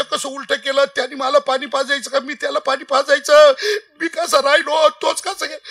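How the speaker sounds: imitated tearful lament; father's mock wailing. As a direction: wail like a grieving father, hammed up. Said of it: "बाप रडायचं".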